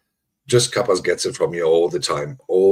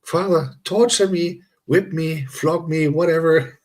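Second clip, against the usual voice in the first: higher-pitched mock plea, breaking into a laugh; imitating eager begging; 8 semitones higher, slower than usual. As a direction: play a friend begging to be roasted, jokingly. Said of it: "He's like".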